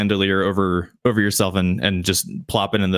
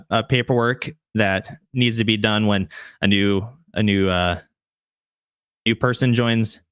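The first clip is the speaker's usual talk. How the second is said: a hint of an officious guard welcoming newcomers; friendly gate guard; 3 semitones higher than usual. Guard welcoming the travellers at the gate, lightly voiced and eager.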